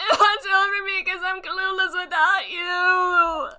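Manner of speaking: loud, high mock-desperate cry; hammed-up helpless wail. Hero begging lost friend to watch over him, hammed-up wail. Wailing on the hero's behalf.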